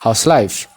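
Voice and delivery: "House life" linked, how-is merged into one syllable; contracted model phrase. Shown as a demonstration. Teacher modelling for learners to repeat, contracted and linked. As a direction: run "House" straight into life, falling at the end. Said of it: "pronounce gochaa gaafachuu qabna".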